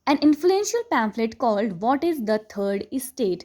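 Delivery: slow, deliberate reading of the English text; textbook read aloud. Acted. Teacher reading the chapter to students, slow and deliberate. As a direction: read each phrase slowly for the class.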